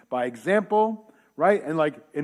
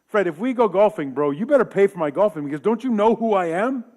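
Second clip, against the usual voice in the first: entitled pastor; 3 semitones higher than usual. Retold or imitated.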